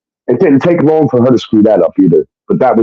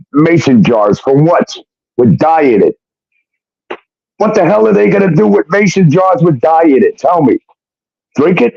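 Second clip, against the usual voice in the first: retold exasperated ranting, raised pitch; incredulous outburst; 7 semitones higher than usual. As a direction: pitch climbing higher in mock disbelief. Retelling his incredulous outburst at fiancée.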